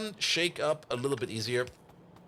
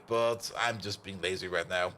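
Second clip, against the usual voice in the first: ordinary talk, nothing marked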